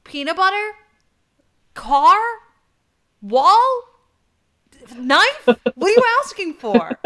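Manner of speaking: high, loud desperate guesses; guessing parent. Retold or imitated. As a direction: throw out wild guesses at a toddler. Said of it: "and you're like".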